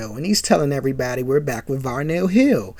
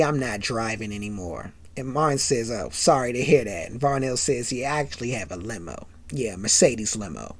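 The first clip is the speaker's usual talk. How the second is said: understated brag; 7 semitones lower, 10 dB quieter than usual. Retold or imitated. Varnell humbly brags.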